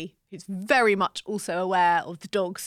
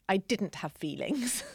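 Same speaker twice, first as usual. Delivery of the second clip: whispered self-mocking aside; whispered joke about denying her feelings; 6 dB quieter than usual. Real, not acted. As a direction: whisper it like a guilty secret. Mocking her own denial.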